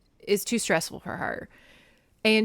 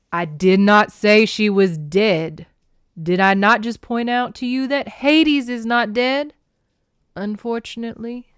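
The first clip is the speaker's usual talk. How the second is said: loud, emphatic god, starting slow; booming, impatient character voice; Poseidon; 2 semitones higher, 8 dB louder than usual. A narrator's reading. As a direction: hammer out the correction. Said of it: "let's try this for Poseidon".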